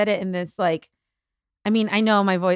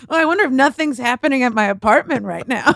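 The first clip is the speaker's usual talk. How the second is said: laughing; 4 semitones higher, 5 dB louder than usual. Real, not acted. Joking while laughing.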